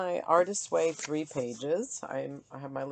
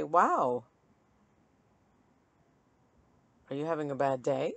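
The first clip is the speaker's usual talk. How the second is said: mock sarcastic line. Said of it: "I could say".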